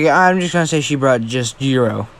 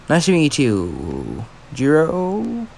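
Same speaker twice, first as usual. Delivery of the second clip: calm reply; 2 semitones higher, much slower than usual. Acted. Izuku answering Jiro calmly.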